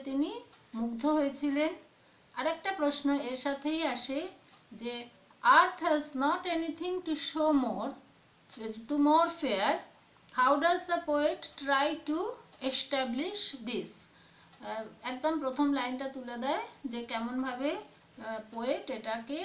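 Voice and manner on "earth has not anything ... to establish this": slow, measured reading of an exam question; teacher dictating, words drawn out. Real, not acted. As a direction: read the question out phrase by phrase.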